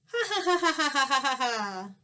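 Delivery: big hearty roaring laugh; lion laughing. Acted. Happy lion roaring with laughter with his new friend. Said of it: "roared, but with laughter".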